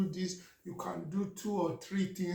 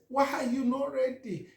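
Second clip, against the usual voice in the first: higher, louder why; exasperated wife; 7 semitones higher, 4 dB louder than usual. Retold or imitated. Wife scolds husband over the phone, exasperated. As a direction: fire the question at him.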